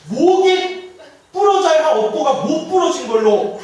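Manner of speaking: a head monk thundering a rebuke; stern scolding. Retold or imitated. Head monk rebukes the laywoman for her outburst, stern. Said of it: "고함을 지르면서".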